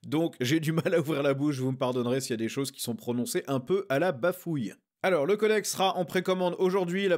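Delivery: barely opening the mouth; talking through a sore, stiff jaw; after wisdom teeth. Real, not acted. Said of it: "Si ma voix est un peu bizarre".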